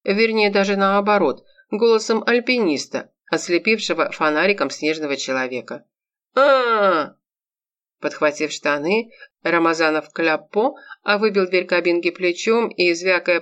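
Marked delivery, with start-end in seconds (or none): 6.3-7.2 high loud wild yell; bigfoot roar. Acted. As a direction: let out a yeti scream. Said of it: "закричал профессор голосом снежного человека".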